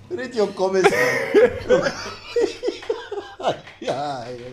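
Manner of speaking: laughing it off; giggling helplessly; breaking character giggling. Real, not acted. Laughing at own reading.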